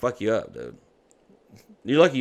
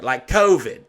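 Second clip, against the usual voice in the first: imitating a kid's too-loud guess; loud child; 8 dB louder, slower than usual. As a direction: blurt it out for all to hear. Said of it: "like, she's so loud".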